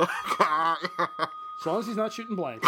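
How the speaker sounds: slow, laughing tease. Real, not acted. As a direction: say it through a laugh. Teasing innuendo line.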